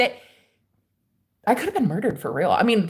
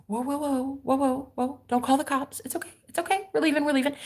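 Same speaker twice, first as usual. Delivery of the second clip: panicked guy; 6 semitones higher, 7 dB quieter than usual. Retold or imitated. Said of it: "He was like".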